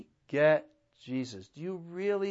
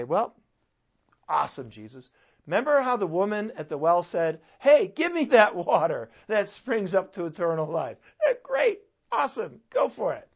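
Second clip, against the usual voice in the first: sarcastic; 4 semitones higher, 6 dB louder than usual. Retold or imitated. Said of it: "they're a little bit sarcastic here".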